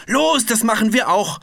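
high, loud piglet cry; Piggledy eggs Frederik on: excited shout; eager shout. A narrator's reading. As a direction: shout it out, bursting to join in. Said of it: "schrie Piggledy".

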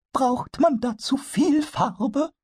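very high, slow little kobold puzzling it out; a tiny goblin voice, high and wondering. Acted. Pumuckl asks Eder about the colour, very high kobold voice. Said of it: "und fragte dann".

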